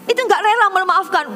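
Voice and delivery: ordinary delivery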